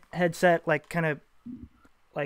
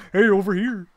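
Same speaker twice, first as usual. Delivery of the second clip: calling out in character; 4 semitones higher, 6 dB louder than usual. Acted. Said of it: "John Locke, yeah".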